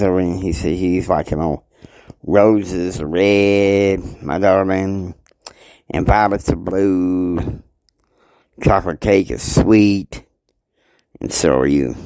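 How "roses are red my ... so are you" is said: slow, drawn-out love-poem recital; romantic poem. Acted. Man reciting a poem to his darling, slow and tender. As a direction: savor each line like a sweet nothing.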